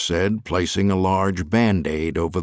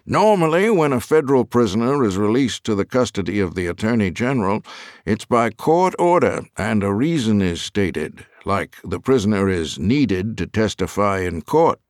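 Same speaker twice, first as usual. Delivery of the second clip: prison warden; 3 semitones higher than usual. Acted. Warden questions the attorney's envoy about release, lightly voiced. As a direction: explain procedure in a lightly acted official voice. Warden explains procedure to Fuller.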